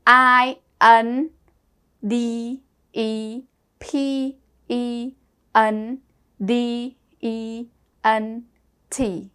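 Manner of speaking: slow letter-by-letter spelling; spelling aloud. Shown as a demonstration. Teacher spelling sadness for the class, slow and deliberate. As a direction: spell out S A D N E S S slowly, one letter at a time. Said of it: "Independent spell".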